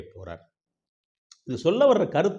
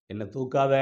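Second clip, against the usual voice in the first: moaning plea. Acted. Wounded man refuses God's help, moaning lightly. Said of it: "முனங்கிட்டே".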